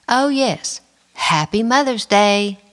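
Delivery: mock cheerful, dripping with sarcasm; sarcastic jab. Husband returns after slamming door.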